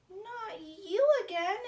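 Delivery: a bear spotting his shadow yet again, loudly exasperated; exclaiming. Acted. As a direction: groan it out, fed up with the shadow. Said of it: "exclaimed Bear".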